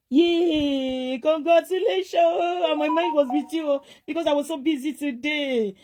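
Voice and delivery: high, drawn-out celebratory cheer; elated, high-pitched congratulations; excited congratulations. Real, not acted. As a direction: cheer for good news, stretching the words out. Celebrating someone's good news on live.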